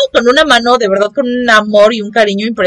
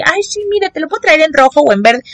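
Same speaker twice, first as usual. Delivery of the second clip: chatty saleswoman; 6 semitones higher than usual. Retold or imitated. Nurse selling to coworkers.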